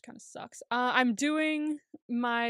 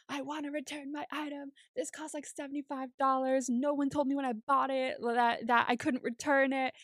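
mildly acted irate customer, building louder; increasingly hysterical complaint; 3 semitones higher than usual. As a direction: start contained, then build the mock complaint. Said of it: "kept getting louder and louder and more hysterical".

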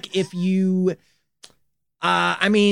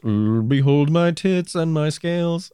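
slow, lightly voiced goat demon; Baphomet voice; slower than usual. Podcaster playing Baphomet to cohost, slow mock-grand. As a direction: intone it like a hammy demon idol. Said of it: "That's how Baphomet sounded".

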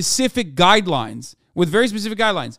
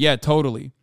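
sarcastic agreement; 3 semitones lower than usual. Acted.

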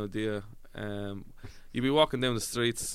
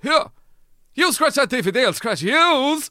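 Conor McGregor voice; 12 dB louder than usual. Retold or imitated. McGregor threatening the gremlins, loud and high. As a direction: snarl it like a fighter squaring up. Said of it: "McGregor comes out ... and he says".

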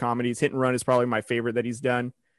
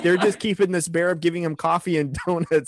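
retold actor panic; 4 semitones higher than usual. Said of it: "And he was like".

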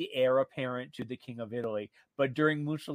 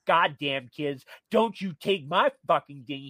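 put-on louder angry yell at the kids; retold furious shout; 5 dB louder than usual. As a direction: bark it out like a furious old king. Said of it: "He's screaming and shouting and swearing".

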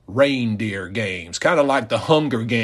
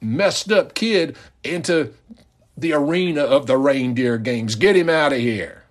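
indignant rebuke; 5 semitones higher than usual. Pretend. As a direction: scold the father in disbelief. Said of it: "what he meant was".

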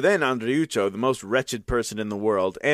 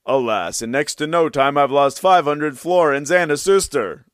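lament; 3 semitones higher, 6 dB louder than usual. Acted. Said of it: "and he thought".

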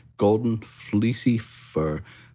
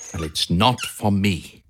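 Harry the hamster; 2 semitones higher than usual. A narrator's reading. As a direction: moan it like a bored little hamster. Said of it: "said Harry".

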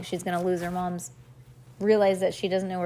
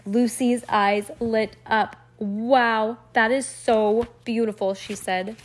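measured, expressive story reading; storybook read-aloud; 3 semitones higher, 3 dB louder than usual. A narrator's reading. Reader tells a child about two girls dressing up, storybook read-aloud.

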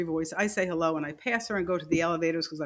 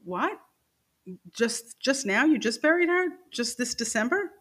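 retold disbelief; 5 semitones higher than usual. Retold shock at coworker's news.

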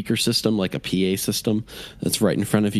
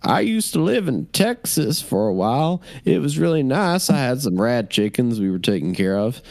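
high, casual rambling captive voice; chatty Texan captive; 5 semitones higher than usual. Acted. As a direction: chat cheerfully about the past. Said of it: "one of the guys pops up and is like".

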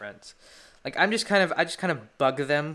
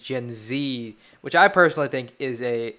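usual speaking voice

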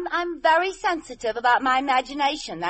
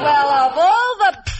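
indignant; 8 dB louder, slower than usual. Acted. Indignant at flirting husband.

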